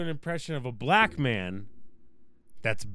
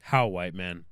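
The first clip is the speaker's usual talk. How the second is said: mock Native American accent; 7 semitones lower, slower than usual. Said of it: "That was an Indian accent".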